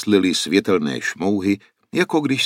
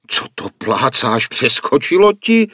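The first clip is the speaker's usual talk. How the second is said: loud, much higher outraged yell; shouting; 6 semitones higher, 7 dB louder than usual. A narrator's reading. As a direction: shout it at him in disbelief. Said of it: "křikla teta Široká". (pohoršený výkřik, mnohem výš a hlasitěji)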